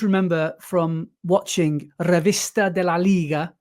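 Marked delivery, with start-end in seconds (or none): 2.0-3.5 put-on Italian accent. Host naming the Spanish football show in a light Italian accent. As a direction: roll it out lightly like an Italian commentator. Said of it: "I said in an Italian accent".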